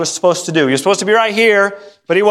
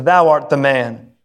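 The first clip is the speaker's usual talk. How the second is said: pointed accusation; 6 semitones lower, slower than usual. Acted. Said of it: "Nathan points his bony finger".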